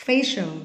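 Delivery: "Facial" with the c as a heavy sh-like S. Shown as a demonstration. Teacher correcting students reading facial, c said as heavy S. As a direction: model "Facial" clearly, the c a heavy S. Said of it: "Cái thằng cờ này là C này là S".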